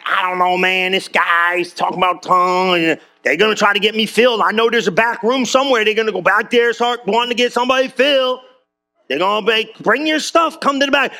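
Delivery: lightly mocking a wary churchgoer; mock nervous newcomer. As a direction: play a skeptic spooked by the back room, half-joking. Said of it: "this one gets a little bit like".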